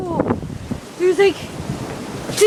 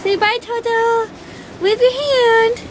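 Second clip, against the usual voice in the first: pet talk; 4 semitones higher than usual. Real, not acted. Talking to her dog.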